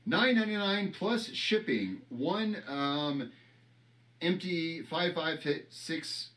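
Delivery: lightly hammed infomercial pitch, slow on the item list; mock sales pitch. Hawking a signed shell casing to viewers, mock ad read. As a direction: sell the shell like a cheesy TV ad.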